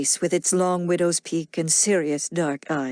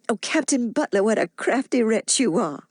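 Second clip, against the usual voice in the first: higher, teasing and smiling; mock reproach from a smiling mother; smiling cry; 3 semitones higher than usual. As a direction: scold him fondly with a smile. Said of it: "she cried, smiling".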